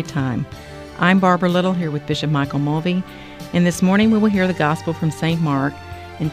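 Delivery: bright, welcoming broadcast voice; radio host intro. Acted. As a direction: open the show like a radio host. Radio host opening the show.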